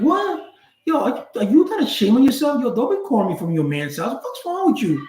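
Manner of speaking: high, outraged disbelief; incredulous big-brother lecture; shocked scolding. Retold or imitated. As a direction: scold her, appalled she'd call from there. Scolding girlfriend for calling from boyfriend's house.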